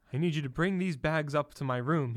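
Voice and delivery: a hint of stern command; mildly stern. Trump ordering the bellboy, mildly stern. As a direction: order him, a touch stern. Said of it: "he said sternly".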